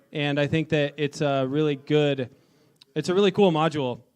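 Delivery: talking around a hard candy; mouth full. Real, not acted. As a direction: speak with candy in your mouth. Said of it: "I have a Jolly Rancher in my mouth".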